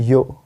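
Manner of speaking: "यो" with no r at the end; silent r. Shown as a demonstration. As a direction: say "यो" ending on the open vowel. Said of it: "इसको बोलते हैं यो".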